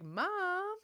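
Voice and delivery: put-on high, loud kid's call; calling out Mom. Daughter pretending to call her mom, high and loud. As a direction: call for Mom like a child teasing. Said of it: "kinda like she was calling me".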